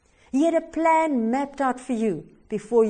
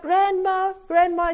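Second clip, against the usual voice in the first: louder, higher call across a distance; 8 semitones higher, 3 dB louder than usual. A narrator's reading. Boy calls his grandmother for help, raised voice. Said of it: "And he called out".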